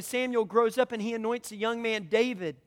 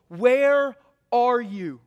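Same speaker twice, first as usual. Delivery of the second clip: pleading cry; 7 dB louder, much slower than usual. Acted. Preacher voicing psalm lament.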